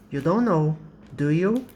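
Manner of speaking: teacher showing don't with do; question tag demo. Shown as a demonstration. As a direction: say it with do you lifting a little. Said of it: "So you use don't, do".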